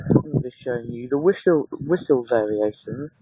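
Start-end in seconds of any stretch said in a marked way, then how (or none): 1.7-3.1 northern accent. Real, not acted. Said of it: "it's my northern accent coming out".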